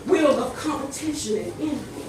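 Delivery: passionate rhythmic poem recital with a repeated refrain; spoken word poem. Acted. Poet recites his poem to the audience, with passion. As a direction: deliver it like a slam poet.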